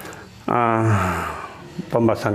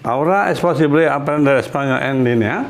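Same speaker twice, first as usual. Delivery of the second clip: rising end on "línea?"; teacher modelling a question tune; question intonation. Shown as a demonstration. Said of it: "intonasi tanya".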